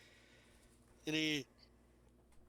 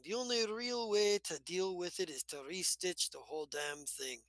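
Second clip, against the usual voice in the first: Chunder Bucket Charlie, cautionary. Acted. Game master as Charlie warns player about loose threads, lightly voiced and cautionary. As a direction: lightly play a game character explaining a metaphor.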